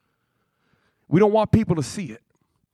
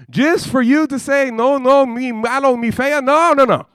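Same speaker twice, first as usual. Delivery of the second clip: high, loud, exasperated scolding; mock outraged rant; 6 semitones higher, 4 dB louder than usual. Groom scolding the bride who refused him, loud and exasperated. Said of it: "You'd be like".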